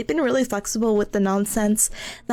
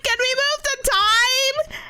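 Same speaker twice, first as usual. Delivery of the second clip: high, slow, timid plea; meek request; 12 semitones higher, slower than usual. Retold or imitated. Asking the boss to move the meeting, high and timid. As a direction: ask it small and high, dragging it out.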